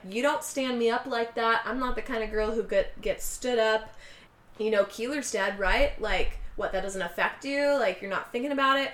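pissed off. Retold or imitated. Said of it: "But she's pissed".

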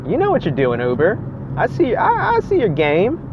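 high, knowing call-out; mock accusing Uber. Real, not acted. Calling out Uber's surge trick, mock accusing. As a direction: wag a finger at Uber, pitched high.

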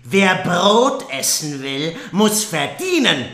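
loud, high, slow mock shout; stepsisters shouting. Stepsisters shouting Cinderella out of the room, loud and high. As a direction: throw her out with a big yell.

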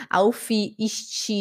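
"Auf, ist" with an extra i sound tacked on the ends; learner's mispronunciation. Retold or imitated. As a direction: imitate a Brazilian saying "Auf, ist" as "aufi, isti". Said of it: "Eu também falava muito assim". (pronúncia errada, com i no fim)

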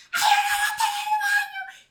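very high loud scream; retold scream. Bursting into the restaurant, a high panicked scream. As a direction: shriek it out in panic. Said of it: "grité como nunca".

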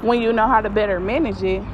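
walking uphill, winded; out of breath. Real, not acted. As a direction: talk while climbing a hill. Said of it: "I'm running out of breath".

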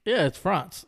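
"France" said with an open, French-style "ah" vowel. Shown as a demonstration. Explaining to his co-host how the French say it. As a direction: say "France" the way they say it over there. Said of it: "that's how they say it over there".

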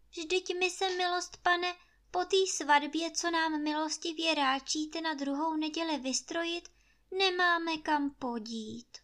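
meek whisper. Acted. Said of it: "špitla Anče".

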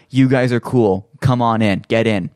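friendly call out. Retold or imitated. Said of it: "they were like".

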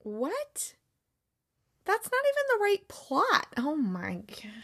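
high, stunned disbelief; What? then a whispered oh my God. Real, not acted. Reads wrong plot, disbelief.

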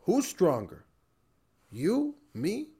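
put-on light Russian accent, measured challenge; mild imitation of a Russian father's accent. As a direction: put on a slight Russian accent, pausing between phrases. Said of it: "in a Russian accent, he would say".

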